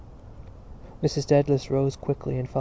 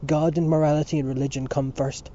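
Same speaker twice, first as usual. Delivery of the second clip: crying out; 2 semitones higher, 4 dB louder than usual. Acted. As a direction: cry it out in protest. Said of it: "cried to Mister Casey".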